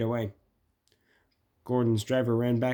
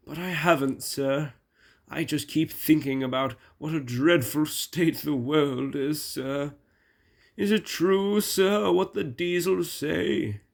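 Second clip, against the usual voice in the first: lightly voiced anxious engine, higher by the end; troubled Gordon the engine; 3 semitones higher than usual. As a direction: worry aloud to the boss, pitch climbing.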